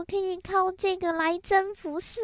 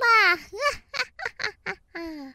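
evil demon laugh. Acted. Demon gloats over humans.

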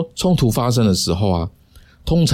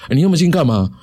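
startled protest; 7 semitones higher, faster than usual. Retold or imitated. Dog owner startled when the narrator leans face to face, higher startled protest. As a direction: jump back startled and ask why so close. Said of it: "他就被我这个举动吓到了".

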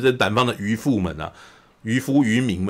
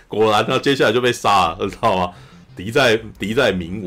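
ordinary talk

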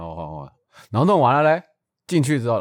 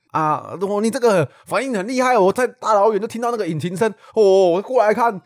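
put-on high, loud gushing old-man voice; old man praising the rider, hammed up high; imitating the old man; 9 semitones higher, 6 dB louder than usual. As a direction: praise like an impressed old uncle. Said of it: "我现在的口气就是他的口气".

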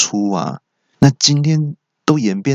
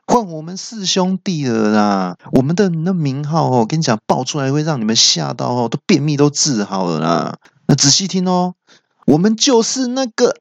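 high-pitched impatient villain outburst; fierce shout, acted; 6 semitones higher than usual. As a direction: snap in a raised voice to stop stalling. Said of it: "很凶狠的大叫说".

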